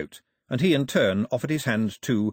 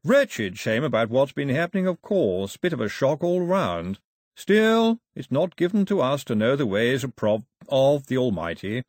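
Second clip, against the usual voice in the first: slightly raised, hearty clerical voice; bishop, blustering; 3 semitones higher, 4 dB louder than usual. Acted. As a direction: bluster through condolences as a clergyman.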